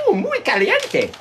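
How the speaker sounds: high, slow mock-sultry Spanish; Spanish elf streamer. Parodying a Spanish elf streamer, high drawn-out cooing. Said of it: "there's a Spanish elf".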